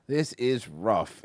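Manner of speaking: drawn-out This is rough; slow. Shown as a demonstration. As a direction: stretch "This is rough" slowly.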